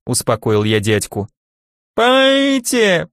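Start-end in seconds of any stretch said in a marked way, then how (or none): 2.0-3.1 wheezing. A narrator's reading. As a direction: rasp it out through a blocked throat. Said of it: "просипело рядом". (просипеть сдавленно)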